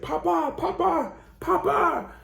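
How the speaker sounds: put-on high tearful little-girl sobbing; cling to him and cry out papa. Daughter hugging her father's legs, crying high. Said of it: "she's just crying her eyes out".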